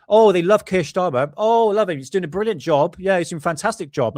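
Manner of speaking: high, loud mocking praise; mocking gush. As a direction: gush it in mock adoration. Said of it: "And it's just".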